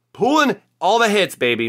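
high, loud triumphant hype; excited holler; hyped celebration. Real, not acted. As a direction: crow about your winning streak. Celebrating a great pull.

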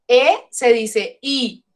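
E as Spanish "eh", then I as long "ee"; English vowel name. Shown as a demonstration. Teacher showing students how E sounds in English, slow demonstration. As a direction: slowly set E "eh" against I "ee". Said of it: "Pero en inglés no".

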